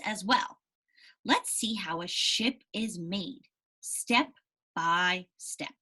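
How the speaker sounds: slow, careful read-aloud voice; reading to children. Acted. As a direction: read the story slowly to the class. Reads story aloud to class.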